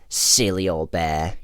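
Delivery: low-pitched British storybook voice; fond line in light British accent. Acted. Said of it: "in British accent".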